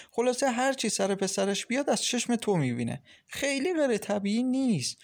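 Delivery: a knowing friend laying out life lessons; wise older friend. Acted. Shohreh counseling Maryam about her mother-in-law, knowing friend. Shohreh's long voiced speech.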